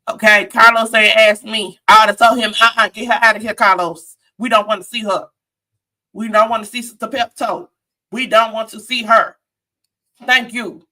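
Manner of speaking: jokingly indignant objection; playful mock protest. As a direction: pretend telling-off, emphatic. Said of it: "I'm just playing, Carlos".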